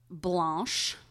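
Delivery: BLANCHE said with a French "ah" vowel; French pronunciation. Shown as a demonstration. Host trying out the French name, Blanche as "blahnsh". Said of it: "say it like French".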